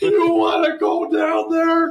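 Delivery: very high, slow mock shout.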